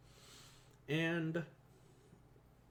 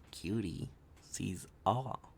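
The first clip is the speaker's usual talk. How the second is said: lower, mock-ominous oracle line; deep oracle voice; 5 semitones lower, much slower than usual. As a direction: drop the voice for a lightly hammed seer. Reworks oracle catchphrase lower.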